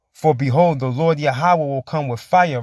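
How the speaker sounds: slow, solemn reading of verse; scripture reading. Acted. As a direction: proclaim the verse with weight. Reads scripture aloud.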